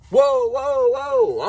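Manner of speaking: high, sudden mock alarm; imitating a spooked guy backing down; startled whoa. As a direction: back off fast, startled. Man startled by gunshot.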